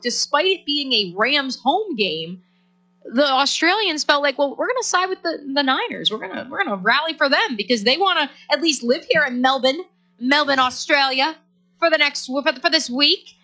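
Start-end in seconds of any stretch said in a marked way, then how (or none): 4.4-13.3 put-on a light Australian accent, pitched higher; playful Australian accent quoting the locals. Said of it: "did you just give us your Australian accent?".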